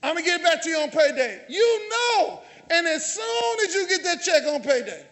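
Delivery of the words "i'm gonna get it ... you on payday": conning borrower. Retold or imitated. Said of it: "when we say".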